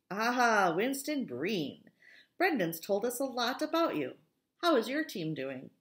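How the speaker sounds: upbeat, welcoming teacher; friendly teacher voice. Acted. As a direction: greet him like a cheerful teacher. Teacher greets warmly.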